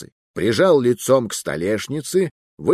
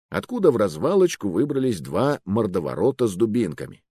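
ordinary delivery

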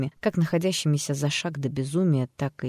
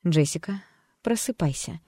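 iron voice. Acted. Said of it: "велела доктор Ферт железным голосом".

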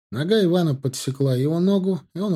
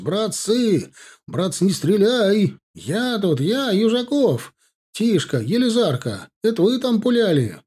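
calling out; 8 semitones higher than usual. A narrator's reading. Calling out to his comrades.

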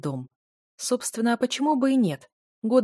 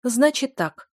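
sobbing; 6 semitones higher, 5 dB louder, slower than usual. A narrator's reading. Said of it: "всхлипнула она".

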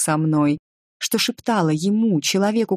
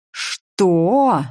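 sharp shocked cry, a bit louder; shout; 3 semitones higher, 5 dB louder than usual. A narrator's reading. Nika to Richard, shocked: angry shout. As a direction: Nika yells it in fury. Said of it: "закричала я".

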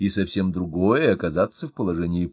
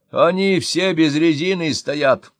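shouting; 6 semitones higher, 5 dB louder, slower than usual. A narrator's reading. Fire chief shouting over phone.

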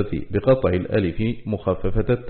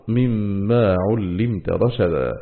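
slow tajweed with held sounds; measured recital of scripture; Quranic recitation; much slower than usual. Shown as a demonstration. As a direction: draw the verse words out as in recitation. Quranic words recited within lesson.

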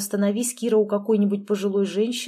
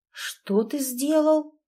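shocked; 6 semitones higher, much slower than usual. Acted. Shocked at his confession.

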